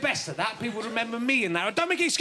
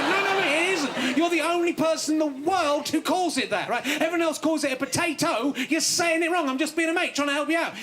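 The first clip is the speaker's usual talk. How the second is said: exasperated rant; 4 semitones higher than usual. Acted. Ranting at potato friend.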